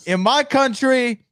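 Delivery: imitating a wrestling promo; mock wrestling promo voice. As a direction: mimic the promo with mock gravity. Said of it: "Look at the dress".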